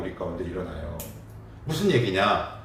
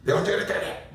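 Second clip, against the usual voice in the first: mock angry retort; 10 semitones higher, faster than usual. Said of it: "내가 갑자기 화가 확 나면서".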